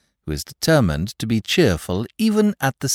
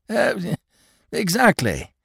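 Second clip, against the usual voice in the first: eager; 11 semitones higher, slower than usual. Acted. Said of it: "He stammered in his eagerness".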